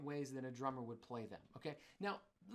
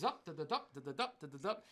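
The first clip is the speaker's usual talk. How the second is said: ZUP and each DUP punched on the downbeat; downbeat accents; 4 dB louder than usual. Shown as a demonstration. Showing the German way of playing, downbeats punched hard. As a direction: stiff march syllables, hard stress on every "dup". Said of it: "everything is on the downbeat".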